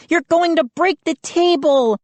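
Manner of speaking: high frantic warning; Mindy fears the table will break, frantic; alarmed. A narrator's reading. High alarmed cry. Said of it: "Mindy screamed".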